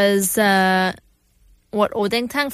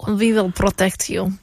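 put-on slow, low Russian accent; imitated Russian movie accent; mock Russian accent; 4 semitones lower than usual. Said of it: "then you went all Russian".

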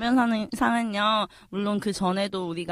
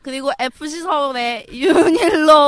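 shouted announcement; 6 semitones higher, 7 dB louder than usual. Acted. Announcing winner.

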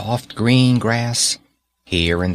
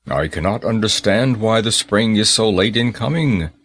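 puzzled giant. Acted. Selfish giant speaks.

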